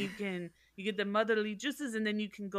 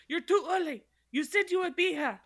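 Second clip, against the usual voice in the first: higher, a touch angry; mildly annoyed; 7 semitones higher, 4 dB louder than usual. Retold or imitated. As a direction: snap at the early visitor. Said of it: "She probably got mad at her".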